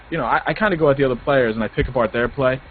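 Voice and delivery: ordinary talk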